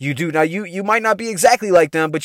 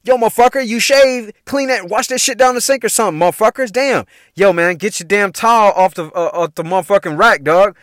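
acting out an exasperated scolding; higher-pitched, fed-up telling-off; retold mad rant; 5 semitones higher than usual. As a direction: chew out messy roommates, hammed up. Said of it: "So I would get mad".

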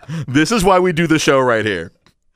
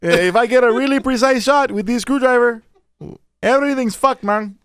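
put-on slightly higher Mexican-accented contractor; 4 semitones higher than usual. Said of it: "your Mexican sounds like Al Pacino's Cuban".

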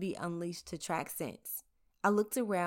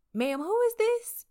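sheriff voice; 8 dB louder, slower than usual. Retold or imitated. Sheriff answering the phone.

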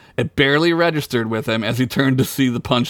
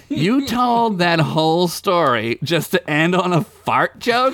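yelling; 5 semitones higher than usual. Acted. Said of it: "Chickpea yelled".

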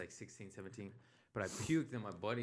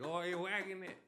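high teasing imitation; mocking sister; 8 semitones higher than usual. Sister making fun of him, high mocking tone. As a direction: tease in a singsong, pitched-up voice. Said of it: "My sister will make fun of me".

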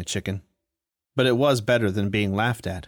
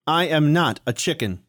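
higher mock yell; 5 semitones higher than usual. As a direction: insist firmly, raised. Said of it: "he yelled".

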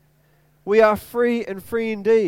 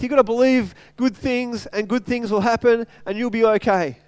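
mocking positive thinking; 4 semitones higher, 4 dB louder than usual. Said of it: "there's ideas out there these days that it's like".

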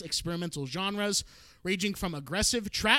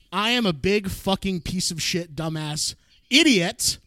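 loud; 6 dB louder, slower than usual. Real, not acted. Mock self-insult.

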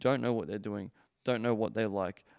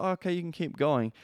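lightly voiced woman, pitched higher; hint of a higher-pitched woman reluctantly agreeing; imitated woman giving in; 7 semitones higher than usual. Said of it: "She's like".

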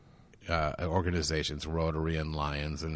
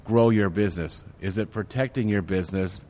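eager helpful offer; 3 dB louder than usual. Retold or imitated. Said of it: "I'm like".

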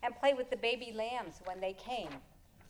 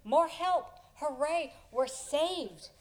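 louder and higher, a joyful shout; excited cheer; 5 semitones higher, 7 dB louder, slower than usual. Acted. Kids in the hole cheering the newcomers, excited shout. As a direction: cheer like rescue has arrived. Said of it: "they called out".

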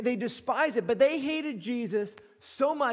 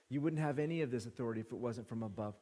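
soft paraphrase; 9 semitones lower, 8 dB quieter, much faster than usual. Retold or imitated. Paraphrasing Jesus quietly.

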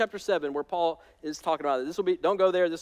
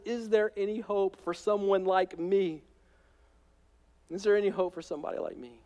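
pained plea; 3 semitones higher than usual. Retold or imitated. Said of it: "the pain in Paul's voice".

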